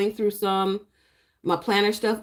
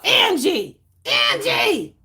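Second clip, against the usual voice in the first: high playful call of a name; 13 semitones higher, 5 dB louder, much slower than usual. Real, not acted. Greeting a chat viewer, in a high playful call.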